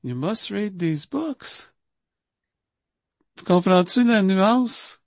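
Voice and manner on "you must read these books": slow, softer, light fatherly comment; just a kind little nudge; gentle remark. Shown as a demonstration. Imitating Prabhupada gently urging devotees to read, soft and slow. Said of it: "Mais juste un petit commentaire".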